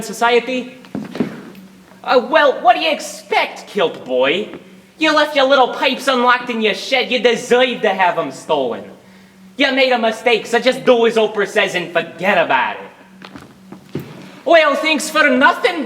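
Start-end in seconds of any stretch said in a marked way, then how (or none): 2.0-14.0 a hint of a Brooklyn tough; lightly voiced New York heckler; Brooklyn Bobby. Mild Brooklyn heckler mocking Dirk for leaving his pipes. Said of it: "I know what you're thinking".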